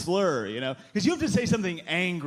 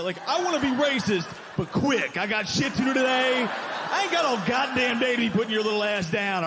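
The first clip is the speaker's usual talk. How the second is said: hammed-up impatient racist snapping; 6 semitones higher than usual. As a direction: rush it like a busy bigot.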